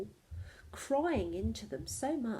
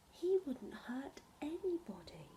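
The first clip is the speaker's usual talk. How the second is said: gentle reassurance; 4 semitones higher, 6 dB quieter than usual. Acted. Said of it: "Missus Jones said".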